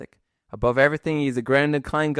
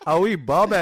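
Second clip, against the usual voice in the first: put-on Irish "baby" said as "Bobby", a short open vowel; a broad Irish "wee Bobby" on request; Irish accent; 4 semitones higher, 4 dB louder than usual. Shown as a demonstration. Irish host repeating "wee Bobby" for his American guest. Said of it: "can you say "baby" one more time".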